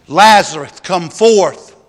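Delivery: loud ringing call to a dead man; commanding call. Acted. Jesus calling Lazarus out of the tomb, loud command. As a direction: call him out of the tomb with full voice.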